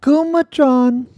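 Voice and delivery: drawn-out high shout of a name, slow and loud; calling out. Real, not acted. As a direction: sing out the name like an announcer.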